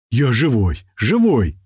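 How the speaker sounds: relieved joyful shout; joyful cry. A narrator's reading. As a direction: shout that you're alive. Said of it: "Это я кричу". (радостный крик)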